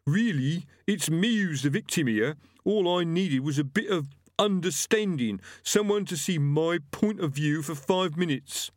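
lightly voiced thug. A narrator's reading. Gripper voice.

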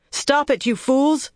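high, urgent call; calling out sharply. A narrator's reading. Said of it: "Fail called to them".

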